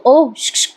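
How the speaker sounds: acted "oh, shh, shh"; a quick hushed interruption in character; shushing interjection. Parth गप्प करून बोलायला सांगतो.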